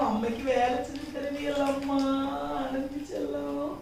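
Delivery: put-on soft, gentle talk to a child; tender reassurance. Mother promising her child will soon walk, tender reassurance. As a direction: soothe quietly and lovingly.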